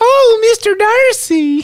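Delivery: very high-pitched woman's voice. Answering an impression with a counter-impression: imitating wife. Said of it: "that's my impression of".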